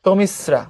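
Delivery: "তমিশ্রা" as tomis, then sra; স double. Shown as a demonstration. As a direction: split "তমিশ্রা" after a held s. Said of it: "তমিস তারপরে রা". ("তমিশ্রা" ভেঙে, তমিস-স্রা)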